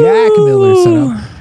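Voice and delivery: hyped announcement. Pretend. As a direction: belt out the name like a big reveal. Cheered on by co-host.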